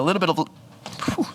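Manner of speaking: interrupted by a hiccup; breath catching on a hiccup. Real, not acted. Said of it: "got the hiccups".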